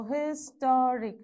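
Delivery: "historic" slowly split into syllables. Shown as a demonstration. Teacher locating the stressed syllable, "historic" slowly sounded out. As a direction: break "historic" into slow, separate beats. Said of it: "rule follows from the end".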